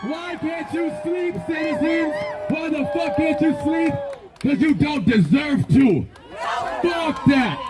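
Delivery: furious yelling at the city; angry shout. Real, not acted. Protest leader yelling at sleeping neighborhood, angry shout. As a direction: yell it out so the whole block hears.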